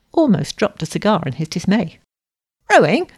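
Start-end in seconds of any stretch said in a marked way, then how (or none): 2.7-3.1 loud, high, incredulous question; startled exclamation. A narrator's reading. Stout suitor is asked to row, dismayed outburst. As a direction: burst out in dismay, pitch shooting up. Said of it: "he ejaculated".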